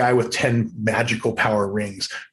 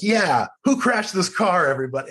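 mock innocent; 7 semitones higher than usual. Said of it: "him in a hot dog suit going like".

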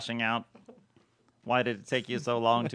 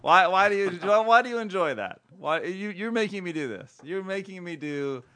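laughing; 4 semitones higher, 4 dB louder than usual. Real, not acted. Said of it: "You're laughing again".

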